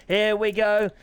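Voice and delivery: rough, hoarse witch-like voice. Real, not acted. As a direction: croak it out hoarsely. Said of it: "Sound like a witch then".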